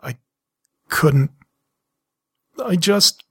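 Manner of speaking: fighting back tears; choked up. Acted. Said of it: "I choked out".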